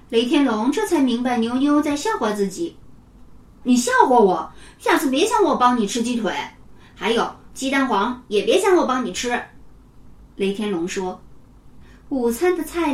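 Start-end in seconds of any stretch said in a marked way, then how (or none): 3.6-9.4 a stuffed boy snapping back at the friend who mocked him; offended retort. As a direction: pay him back with an indignant threat. Offended boy scolds teasing friend.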